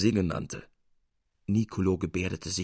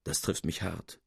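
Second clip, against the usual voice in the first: mock grief; 5 semitones lower, 7 dB quieter than usual. A narrator's reading. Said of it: "seufzte auf, wie von tiefem Kummer".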